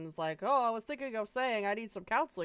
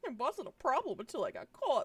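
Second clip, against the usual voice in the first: high, lordly put-on voice; 6 semitones higher than usual. Replying to a question in a bit, doing a Lord voice. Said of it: "doing a Lord voice".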